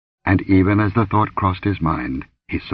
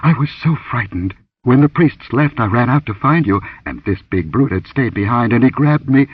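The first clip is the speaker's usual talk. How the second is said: higher, anxious, pleading voice; frightened account; 4 semitones higher than usual. Acted. Dancer tells rescuer of being seized, frightened. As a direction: explain yourself, still rattled.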